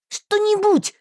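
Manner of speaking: high loud snap; barked. A narrator's reading. Heroine snapping at Marston, loud bark. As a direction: bark the word at him. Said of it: "рявкнула я".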